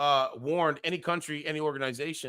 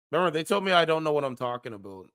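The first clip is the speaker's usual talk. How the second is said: sarcastic jab; 3 semitones higher, 6 dB louder, faster than usual. Acted. Mocking critics' claim.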